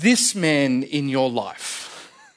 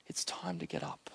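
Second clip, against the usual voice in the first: fully unvoiced, much lower and softer whisper; just breath, no voice; 11 semitones lower, 19 dB quieter than usual. Jesus whispering to wake the girl, unvoiced whisper. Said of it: "he whispers to her".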